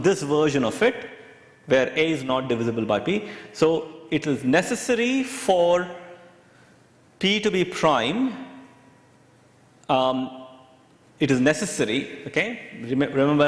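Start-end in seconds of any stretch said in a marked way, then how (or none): 3.5-8.3 slow, deliberate "necessary"; stress on necessary. Shown as a demonstration. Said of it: "I'm emphasizing the word necessary". 11.2-12.3 "necessary" pressed firmly; stress on necessary. Shown as a demonstration. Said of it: "I'm emphasizing the word necessary".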